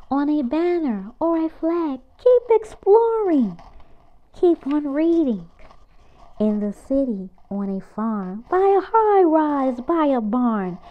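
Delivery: lively picture-book read-aloud; reading to children. Acted. Reading a picture book aloud to kids, lively and bouncy. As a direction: read it out brightly for little kids.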